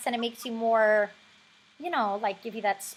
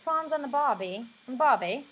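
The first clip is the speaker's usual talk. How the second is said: accidental British accent. Shown as a demonstration. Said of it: "it's going into the British".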